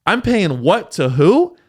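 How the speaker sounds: slow, incredulous rich guy; mock outraged rich guy. Rich comedian looking at his taxes, slow and incredulous. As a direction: drag it out like shocked at the tax bill. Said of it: "they go".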